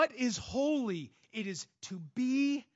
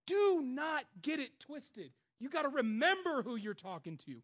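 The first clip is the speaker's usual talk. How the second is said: stern warning; 5 semitones higher than usual. Real, not acted. Preacher warning the congregation.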